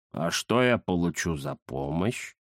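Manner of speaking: низко, тихо и медленно; хитро поторговаться; ленивый кот Захар. Acted. Захар торгуется. (Захар лениво торгуется с Индирой)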